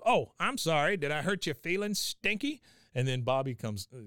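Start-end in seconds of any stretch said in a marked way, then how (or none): 0.0-2.6 high, mocking fake apology; Cotton. Cotton taunts his grandson, high mocking voice. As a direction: taunt him with mock sympathy, pitched up. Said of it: "He goes".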